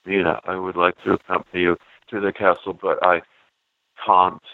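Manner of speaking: mock Keanu: plain American, British accent creeping in at the end; lightly imitating a bad British accent that shows up late in the line; a hint of forced English accent on the final word; Keanu Reeves British slip. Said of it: "you can see him remembering he's supposed to be British right at the end of each line".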